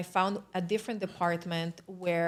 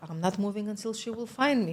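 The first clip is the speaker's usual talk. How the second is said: firm insistence; faster than usual. Retold or imitated. Recruit answers the doubting psychiatrist, firmly insistent. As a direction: insist on it in one brisk run. Repeats her stance when challenged.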